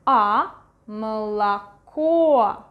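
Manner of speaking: slow "молоко" with the middle O as A; O before stress as A. Shown as a demonstration. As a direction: isolate "A" slowly, then "молоко" with LA in the middle. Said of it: "going to pronounce it as".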